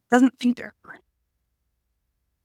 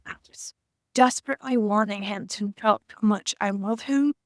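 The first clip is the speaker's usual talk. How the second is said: tearful, whispered longing; real welling tears, whispered; emotional whisper. Real, not acted. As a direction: voice nearly gone with emotion. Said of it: "Sorry, I'm getting emotional".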